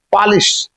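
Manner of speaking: पॉलिश with an open first vowel, like 'paalis'; correct pronunciation. Shown as a demonstration. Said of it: "सही pronunciation है". (पॉलिश का सही उच्चारण, खुला 'पा')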